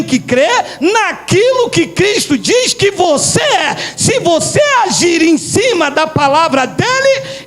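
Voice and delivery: forceful, deliberate sermon delivery; preacher declaring a truth; emphatic preaching. Real, not acted. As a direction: drive each phrase home to the congregation.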